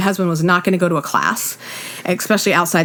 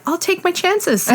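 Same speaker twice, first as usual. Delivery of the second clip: laughing retort; 10 semitones higher, slower than usual. Retold or imitated. Her retort, high and laughing.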